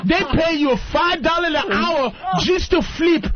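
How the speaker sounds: hammed-up tearful immigrant voice; immigrant complaint. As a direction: wail about tiny pay like a put-upon worker. Mocking a Haitian immigrant's complaint.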